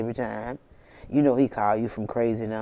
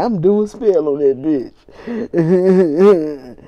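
mock angry; 5 semitones higher, 10 dB louder, much slower than usual. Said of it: "And he said".

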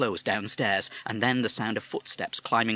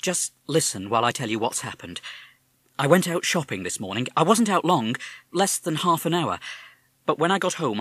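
mother; 5 semitones higher, 5 dB louder than usual. Acted. Mother tells Harry of burglary.

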